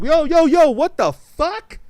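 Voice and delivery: high, loud yo yo yo; slow, drawn-out what the fuck; mock outrage. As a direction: act baffled and indignant. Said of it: "I'm like".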